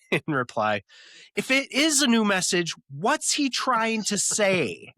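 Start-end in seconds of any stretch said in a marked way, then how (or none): 1.4-4.9 much higher, slow fretting; obsessed, ignoring the question; distracted Monica. Teller voices Monica fretting over the message, much higher. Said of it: "She says in reply".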